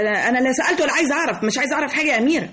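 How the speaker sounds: fast, nervous laughing words; flustered laughing denial. Acted. Masarrat caught snooping, denying to Amira with a fast nervous laugh. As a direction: rush the denial through a laugh.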